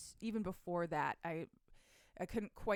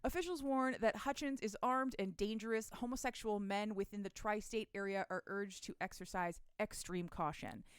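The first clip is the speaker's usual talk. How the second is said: put-on old radio announcer. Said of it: "it's the radio".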